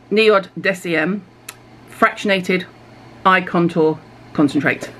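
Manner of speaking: slow, drawn-out product names; carefully spelling out a product name; oddly slow reading. Real, not acted. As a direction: read each name out slowly and deliberately. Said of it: "I don't know why I'm talking like that".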